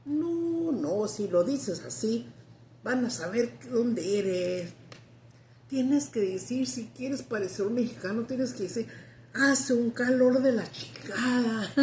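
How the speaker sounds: a hint of the wise old smuggler explaining; imitating the old man coaching in Spanish; old man's advice. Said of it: "He goes".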